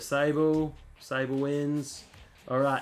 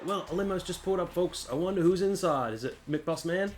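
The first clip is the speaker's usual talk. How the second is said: higher-pitched play-by-play patter; wrestling commentary; 6 semitones higher than usual. Acted. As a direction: speculate like a ringside commentator. Acting out wrestling commentary on cutscene.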